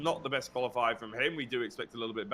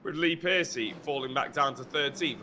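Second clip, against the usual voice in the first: breathless, gasping between phrases; talking while winded and panting; out of breath. Real, not acted. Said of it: "if I sound like I'm out of breath".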